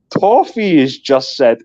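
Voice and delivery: lightly mimicked slow announcing of a message; slightly mock-formal read-out; imitated message read-out. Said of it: "you read it out in your beautiful Scottish accent".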